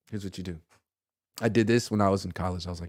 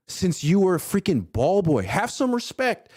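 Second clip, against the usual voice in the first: stern rebuke; 8 semitones higher than usual. Acted. Scolding the coach.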